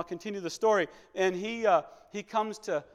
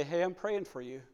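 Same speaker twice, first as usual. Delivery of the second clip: gentle comfort; 3 semitones lower, 5 dB quieter than usual. Pretend. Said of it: "call them up and say".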